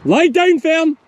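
loud, high shouted dog command; real shout. Real, not acted. Farmer to young pup gone astray, shouted command. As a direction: shout the order across the field, pitched high. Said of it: "Poor Meg lies down when I shout".

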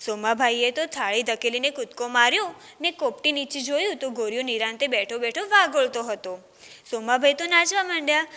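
put-on storytelling voice for children, lively; story narration. A narrator's reading. Teacher reading a village tale to children, storytelling. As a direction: read the tale aloud to a class.

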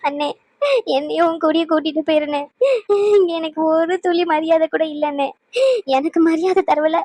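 words dragged out between sobs; talking through tears. Acted. Sister crying to her brother, dragging words through tears. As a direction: plead while crying, drawing the words out. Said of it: "இப்படி அழுது அழுது இழுத்து இழுத்து பேசிக்கிட்டு".

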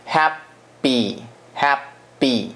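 no puff of air on the p in "happy"; unaspirated p. Shown as a demonstration. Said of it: "不会有一个气音".

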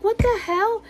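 squeaky high what-the-hell; baffled outburst. Retold or imitated. Mom hitting the second fake egg, high and baffled. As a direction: throw it up high in mock disbelief.

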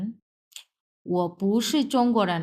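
very slow, word by word; slow model reading. Shown as a demonstration. Teacher reading 我不是中国人 slowly for students. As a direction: spell it out syllable by syllable for learners. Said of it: "teacher reads model sentence slowly".

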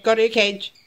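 short, firm order with a falling end; cranky scolding. Shown as a demonstration. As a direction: tell the pet off matter-of-factly. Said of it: "But if I say".

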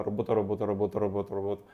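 quick, steady repeating of «робота», no breaks; rapid repetition. Shown as a demonstration. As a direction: say the word over and over without pauses. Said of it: "без пауз, швиденько, вголос".

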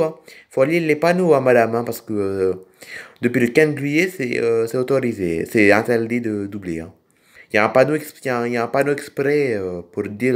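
put-on funny accent with R's sliding into L's; odd accent. Tractor driver apologising to madame, in an odd accent. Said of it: "j'ai un drôle d'accent".

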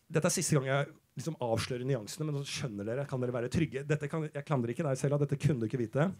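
calm them down gently; reassuring. Acted. Comedian telling Sela she could not know, soft reassurance.

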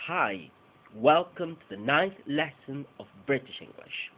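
whole sentence slow with weak forms on to, the, of; slow model reading. Shown as a demonstration. Teacher repeating the full sentence slowly as a model. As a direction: read it slowly with schwa reductions. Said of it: "si repito todo otra vez".

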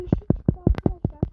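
loud triumphant shout; excited shout. Real, not acted. Gamer to viewers after finding green, excited shout. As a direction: burst out with the win.

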